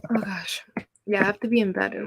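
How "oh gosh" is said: soft unvoiced whisper. Real, not acted. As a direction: breathe it quietly. Whispered sigh before bed.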